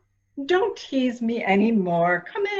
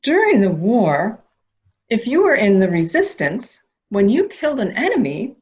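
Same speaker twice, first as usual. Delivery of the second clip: louder, leaning into the war story; louder, eager; 6 dB louder than usual. Acted. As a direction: build it up louder to draw the boy in. Coaxing the boy with war talk.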